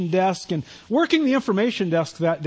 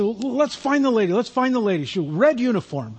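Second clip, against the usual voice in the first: lightly imitated Eastern European accent, mostly higher; 4 semitones higher than usual. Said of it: "real heavy kinda Eastern European accent".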